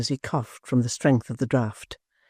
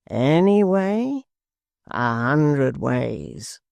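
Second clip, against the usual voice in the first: slow, sly tempter; sly old man; much slower than usual. Acted. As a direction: drag it out, tempting. Blind man tempting slowly.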